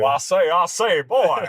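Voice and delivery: hammed-up Southern accent impression; Foghorn Leghorn. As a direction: do a cartoon Southern drawl. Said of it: "sound like Foghorn Leghorn".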